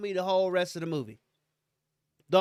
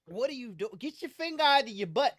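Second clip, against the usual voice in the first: put-on scolding child; 5 semitones higher than usual. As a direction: snap at the child to stop. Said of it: "you'll say something to your child like".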